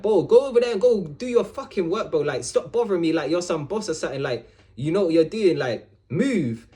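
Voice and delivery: annoyed retort. Retold or imitated. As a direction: snap back at a nagging coworker. Arguing with annoying coworker.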